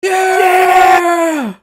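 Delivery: very high, loud drawn-out yell; mock cheer. Friend answers a crude joke, high loud mock cheer. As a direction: squeal it out in mock enthusiasm.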